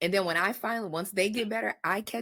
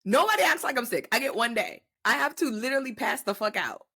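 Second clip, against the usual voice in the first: indignant; 2 semitones higher than usual. Real, not acted. Indignant complaint.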